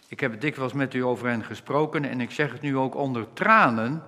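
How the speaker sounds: normal talking voice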